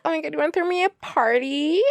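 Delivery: fast, high-pitched thrilled question; gushing disbelief. Shown as a demonstration. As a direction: rush it out, rising high on PARTY. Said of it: "You have to say it like".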